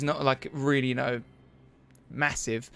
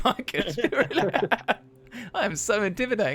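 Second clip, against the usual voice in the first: self-admiring brute; 6 semitones higher than usual. Acted. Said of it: "catches a vision of himself in a mirror and goes".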